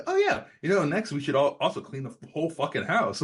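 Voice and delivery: sarcastic friend mocking the idea of cleaning up first; sarcastic retort. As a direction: sneer it back like a snarky teen. Mocking friend's microwave line.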